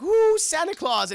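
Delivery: high, drawn-out mock awe; loud, slow squeal of wonder; awed trick-or-treaters. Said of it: "they're like".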